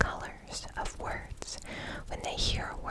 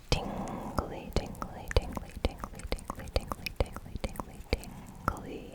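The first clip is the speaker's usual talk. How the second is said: tingly asmr mouth sounds. Acted. Repeated trigger word ASMR.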